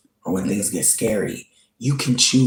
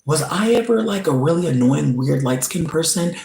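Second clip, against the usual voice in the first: retold question; 5 semitones higher than usual. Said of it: "I was like".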